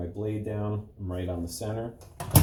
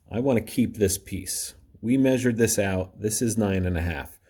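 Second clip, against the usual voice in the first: emphatic; 7 dB louder than usual. Real, not acted. Stressing the key measurement.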